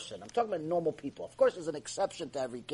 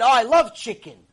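gushing chicken lover; 5 semitones higher, 10 dB louder than usual. Retold or imitated. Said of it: "And one of the guys said".

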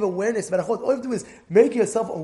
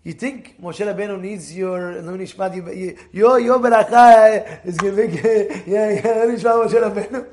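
mocking heckler; 6 dB louder than usual. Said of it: "So one guy in the crowd".

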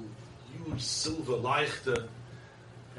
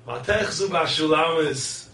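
louder and slow, drawing out the verse; impassioned proclamation; 4 semitones higher, 9 dB louder, slower than usual. Real, not acted. Preacher thunders the verse back to the nations, slow and loud. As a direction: proclaim it like the sermon's climax. Verse repeated as sermon climax.

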